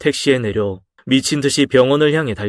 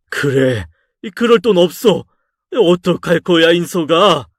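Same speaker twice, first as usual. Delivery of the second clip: scolding father; 5 semitones higher than usual. Acted. Father confronting son about having no money, raised and exasperated. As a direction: push the question at him, higher.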